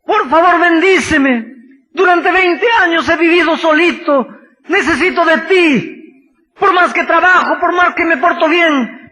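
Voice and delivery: loud, high, desperate shouted pleading; a man clinging on and shouting for a blessing; desperate plea. Acted. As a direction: beg with everything you have, crying out. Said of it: "se agarra de Cristo desesperadamente".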